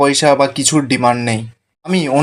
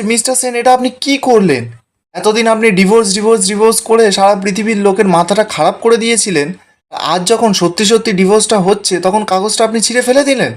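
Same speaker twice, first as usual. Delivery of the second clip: higher, stunned and incredulous; a hint of outraged astonishment, voice pitched up; shocked disbelief; 4 semitones higher than usual. Ela to Gora after he tears the divorce papers, shocked. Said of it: "এলা তো দেখেই অবাক".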